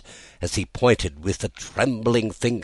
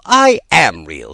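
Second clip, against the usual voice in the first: tearful; 3 semitones higher, 10 dB louder, slower than usual. A narrator's reading. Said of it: "and began to cry".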